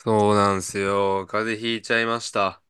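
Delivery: stuffy nose from a cold; blocked nose, talking through it; nasal voice. Real, not acted. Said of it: "ほんと今日鼻声で".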